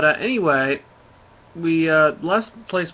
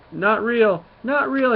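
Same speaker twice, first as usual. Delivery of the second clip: loud, high-pitched frantic refusal; mock panicked denial; 9 semitones higher, 7 dB louder, slower than usual. Kid running out of the hospital, mock panic. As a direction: cry it out in put-on panic, pitch climbing.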